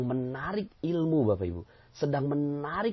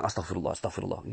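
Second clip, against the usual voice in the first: blaming sigh; 5 semitones lower, 4 dB quieter, faster than usual. Shown as a demonstration. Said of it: "sambil nyalahin orang".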